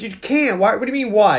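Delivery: acted disbelief at a silly question; mock exasperation. Boy argues with Terminator, mock exasperated.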